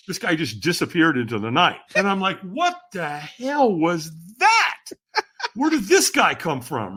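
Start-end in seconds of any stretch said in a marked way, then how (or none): 2.4-6.9 slow, higher, drawn-out astonishment; baffled disbelief. Acted. Reacting to a stranger who vanished, baffled. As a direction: spell out your bafflement word by word.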